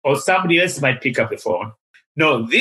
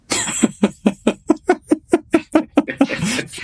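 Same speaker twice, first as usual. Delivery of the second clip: big laugh; 14 semitones higher than usual. Real, not acted. Laughing at the story's surprise.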